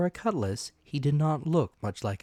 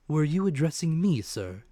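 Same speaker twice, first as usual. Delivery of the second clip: calm, steady doctor; 5 semitones higher than usual. Acted. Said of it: "same tone of voice ... calm and steady".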